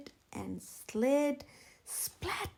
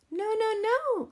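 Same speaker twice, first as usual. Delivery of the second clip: high, loud triple no; bossy rooster cutting in; emphatic no; 10 semitones higher, 8 dB louder than usual. A narrator's reading. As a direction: stop them with a loud no.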